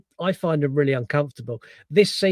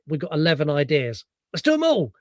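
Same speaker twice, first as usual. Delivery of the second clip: manic studio exec pitching everything; hammed-up frantic enthusiasm; coked-up hype. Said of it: "They went".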